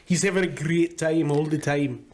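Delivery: lightly put-on Irish brogue; a touch of cartoon Irish; mock Irish accent. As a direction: play it as an Irishman. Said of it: "He's got an accent".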